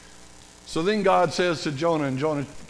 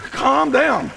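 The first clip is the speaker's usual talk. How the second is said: mock shout; 7 semitones higher, 6 dB louder than usual. Exasperated parent, noisy kids.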